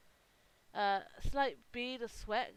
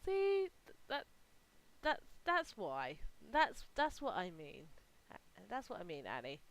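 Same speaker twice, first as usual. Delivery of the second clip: put-on teasing girl, laughing. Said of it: "the other girl just laughs ... and goes".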